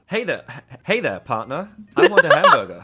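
German speaker's American accent. Shown as a demonstration. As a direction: try an American accent, building to a loud finish. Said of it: "Can you do an American accent?".

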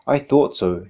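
beaming. A narrator's reading. Greeter pleased to have recognized the author, beaming. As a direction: beam as you say it. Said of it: "she said, beaming".

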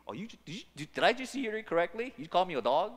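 a sharp, fast, offended did I hear that right; offended disbelief. Pretend. The woman to Jesus, stunned and offended. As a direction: take it as an insult. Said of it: "rising with anger".

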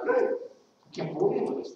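high, slow, breathy sarcastic aside; mock exasperation. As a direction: imitate someone fed up, drawn out. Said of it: "and you're just like".

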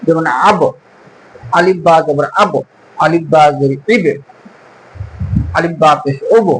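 আব, ইবে, ওব with a push on the final b; qalqalah bounce. Shown as a demonstration. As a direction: bounce the b at the end of আব and ওব. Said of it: "ধাক্কা দিয়ে পড়তে হয়".

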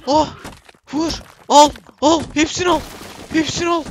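high, loud commands at the screen; hyped-up gamer calls; excited urging shout. Real, not acted. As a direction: yell them on, take them all. Urging capture during fight.

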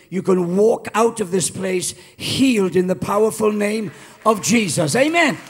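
rising, loud preacher's build to a shout; preaching at full force. Acted.

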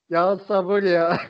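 exasperated sigh. Real, not acted. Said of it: "sinirden gülüyorum ya".

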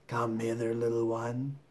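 coaxing crocodile. Acted. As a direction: lure the little one in quietly.

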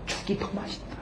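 barely audible, whispered echo; very soft murmur; consoling wife. Retold or imitated. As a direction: savour it in a hush, as the wife. Wife's consoling line repeated softly.

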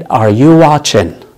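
each word drawn out slowly; slow teaching model of Are you watching; slow demo. Shown as a demonstration. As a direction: spell it out slowly for learners. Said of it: "هل أنت بتشاهد؟".

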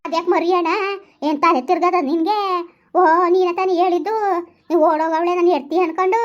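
angry wife's rebuke; angry scolding. Acted. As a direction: scold him hard and loud-ish. Wife scolds husband in quarrel.

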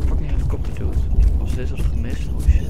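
loud and excited. Real, not acted. Near miss by helicopter.

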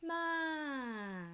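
"Ma" sliding from high to low; falling tone. Shown as a demonstration. Teacher reviewing third tone, "Ma" falling high to low. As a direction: let "Ma" drop steadily from a high start. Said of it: "falling tone from high to low".

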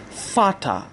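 فاتا with an f at the start and "a" ending. Shown as a demonstration. Teacher modelling German father, فاتا starting with f.

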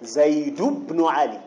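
slow "زيد بن علي" as "Zaydu-bnu Ali"; tanween dropped. Shown as a demonstration. Teacher repeating the example, slow "زيد بن علي" with tanween dropped. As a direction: stretch it slowly, "زيد" gliding into "بن" without n. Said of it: "التنوين ساقط".

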